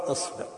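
"إصبع" as isbi', i in both syllables; kasra on hamza. Shown as a demonstration. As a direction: say "إصبع" with i before and after the s-b cluster. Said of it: "إذا كسرت الهمزة فتقول". (نطق "إصبع" بكسر الهمزة والباء)

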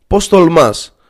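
the professor loses it and yells. A narrator's reading. Furious professor yelling at the defiant student. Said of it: "φωνάζει ακόμα πιο δυνατά".

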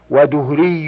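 ودهري with short "u" after the d, duhri; damma pronunciation. Shown as a demonstration. Reader gives nisba for an old man, ودهري with damma. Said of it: "بالضم".

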